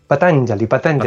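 Patanjali with the accent on TAN; stress on second syllable. Shown as a demonstration. Guest corrects host's Sanskrit accent, stress on TAN in Patanjali. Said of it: "Yo con los acentos".

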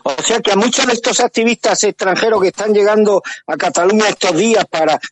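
distorted, speaking into the mic; too close to mic. Real, not acted. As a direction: mouth right on the microphone. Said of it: "que se te oye fatal". (demasiado cerca del micrófono)

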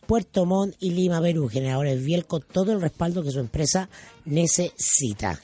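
upbeat announcer selling generators; radio ad read. Acted. Host reads the generator sponsor spot on air, announcer voice.

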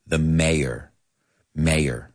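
"mayor" in two syllables, MAY-er; American pronunciation. Shown as a demonstration. Teacher answering how to pronounce it, "mayor" as MAY-er. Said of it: "say it with me".

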